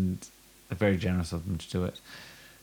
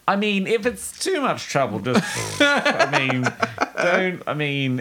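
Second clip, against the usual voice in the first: flustered; 10 semitones higher, slower than usual. Retold or imitated. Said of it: "I literally said".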